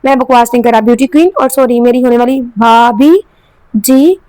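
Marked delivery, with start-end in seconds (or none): 1.4-4.2 slow teasing line, भाभी stretched long; drawn-out भाभी. A narrator's reading. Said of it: "लफ्ज भाभी को खींच कर कहा".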